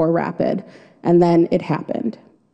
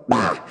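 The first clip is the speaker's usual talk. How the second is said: short blurted "bah"; reenacted yelp on hitting water; startled "bah"; 9 semitones lower than usual. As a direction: blurt out a low mock-panic yelp. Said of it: "first thing I did was go".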